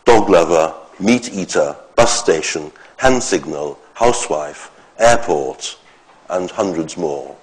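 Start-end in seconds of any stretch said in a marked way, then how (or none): 0.1-5.8 each compound like "dog lover" stressed on its first part; compound-noun stress. Shown as a demonstration. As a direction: list "bus station", "airport" and the rest with the first half stronger. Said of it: "the stress pattern of this is characteristic of a compound noun".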